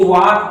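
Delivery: "वाक" with no L sound; silent L. Shown as a demonstration. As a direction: say "वाक", long vowel straight into the K. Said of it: "यल हमेशा silent रहता है".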